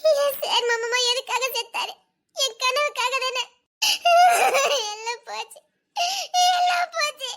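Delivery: tearful, broken, slowed wailing; sobbing lament. Acted. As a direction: grieve aloud through tears. Wife mourning her dream. (அழுது புலம்புதல்)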